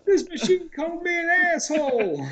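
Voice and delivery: mock robotic ATM voice; high-pitched imitation of a machine. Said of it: "the A T M machine called him an asshole".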